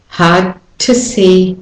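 "Hard to see." slowly with the D dropped; elided D demo. Shown as a demonstration. Teacher showing D elision. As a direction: glide from hard into to. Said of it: "omit the D and just go hard to see".

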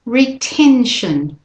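slow "retention", stress on "ten"; model pronunciation. Shown as a demonstration. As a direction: say "retention" slowly and clearly. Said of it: "And the next one".

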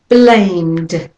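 Blamed, M running straight into D, one syllable; blamed with a final d. Shown as a demonstration. Teacher models blamed for learners. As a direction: hum the M then close on D in Blamed. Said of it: "straight from the M to the D sound".

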